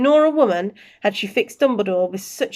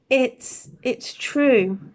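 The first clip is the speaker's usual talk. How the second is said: faltering; 4 semitones higher, much slower than usual. Acted. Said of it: "faltered Professor McGonagall".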